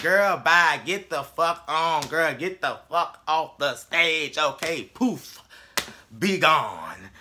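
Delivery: drawn-out, dismissive "get off the stage" sass; slow, mocking brush-off; sassy dismissal. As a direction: wave her away like she's nothing. Nene dismissing Kim off stage.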